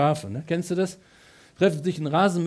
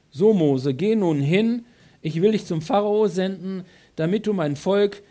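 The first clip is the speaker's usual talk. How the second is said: louder, commanding divine voice; voice of God commanding; 3 semitones higher, 5 dB louder than usual. Acted. God commanding Moses to go to Pharaoh, louder. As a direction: send Moses off with authority.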